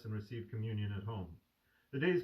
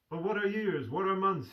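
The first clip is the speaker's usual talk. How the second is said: higher and louder, an eager exclamation; exclaiming; 9 semitones higher, 5 dB louder than usual. Acted. The sick son exclaims to the doctor, joyfully raised. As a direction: burst out with joyful wonder. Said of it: "he would exclaim".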